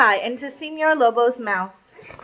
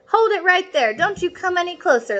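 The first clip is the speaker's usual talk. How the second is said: yelled; 7 semitones higher than usual. Acted. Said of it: "Little Red Hot yelled".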